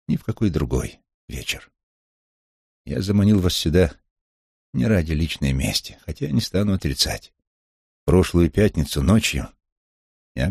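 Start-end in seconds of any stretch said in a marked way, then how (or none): none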